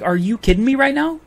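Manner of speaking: can't believe what she just said; mock-retold indignant disbelief; incredulous. Retorting to the store clerk.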